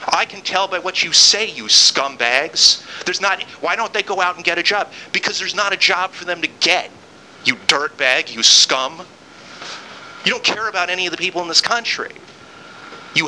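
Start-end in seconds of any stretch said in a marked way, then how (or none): 0.1-11.4 angry insults. Real, not acted. Host insulting callers as scumbags.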